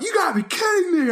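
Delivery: high-pitched incredulous squeal; freaking out. Retold or imitated. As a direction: act out losing it in disbelief. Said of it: "I'm, like, freaking out".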